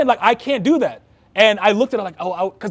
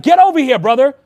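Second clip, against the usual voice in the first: friendly call; 4 semitones higher, 5 dB louder than usual. Retold or imitated. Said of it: "he's like".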